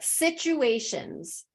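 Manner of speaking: Situations with the full ending, stretched slowly; careful situations. Shown as a demonstration. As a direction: say Situations slow, every syllable clear. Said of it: "situじゃなくて".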